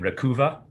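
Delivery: "Rakuva" pronounced oddly, the way it is spelt; odd pronunciation. Real, not acted. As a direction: say "Rakuva" as a weird name, not as "Recover". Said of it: "I have to pronounce it weirdly".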